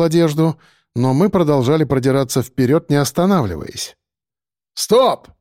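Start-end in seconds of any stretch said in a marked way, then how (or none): 4.7-5.3 command. A narrator's reading. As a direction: bark the halt at the whole group. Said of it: "скомандовал я".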